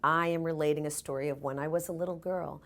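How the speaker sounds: measured, mildly mock storytelling announcement; narrative monologue. Shown as a demonstration. Actor introduces a childhood story, plainly narrative. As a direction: announce the story with light emphasis. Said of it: "The monologue is narrative".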